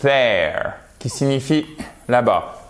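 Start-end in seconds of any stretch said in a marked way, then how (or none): 0.0-0.7 THERE with a voiced TH, tongue between the teeth; th anglais correct. Shown as a demonstration. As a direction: say THERE with a buzzing English TH. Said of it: "un son vraiment puissant". (« there » avec le th anglais, langue entre les dents)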